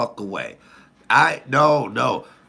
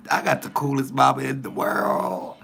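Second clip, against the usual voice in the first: usual speaking voice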